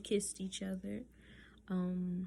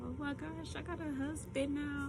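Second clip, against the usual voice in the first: high, giddy, building louder; giddy excitement; 6 semitones higher, 4 dB louder than usual. Retold or imitated. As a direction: gush it, rising with joy. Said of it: "And I just kept on saying".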